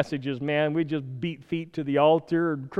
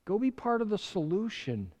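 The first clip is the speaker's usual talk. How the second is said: stern rebuke; 7 semitones higher, 8 dB louder than usual. Pretend. God scolding the preacher in sermon.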